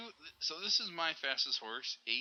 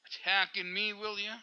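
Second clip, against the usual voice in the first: playful mock anger, higher and louder; mock mad; 6 semitones higher, 4 dB louder than usual. Telling off the horse that attacked him, mock anger. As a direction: scold the horse in jest. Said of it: "Now I'm mad".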